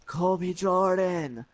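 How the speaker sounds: slow, strained mock half-shout; imitating a hushed yell; whisper yelling. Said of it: "whisper yelling".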